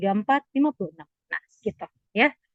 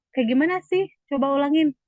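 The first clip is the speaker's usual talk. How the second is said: puzzled asking; 5 semitones higher than usual. Pretend. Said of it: "Kita mau nanya".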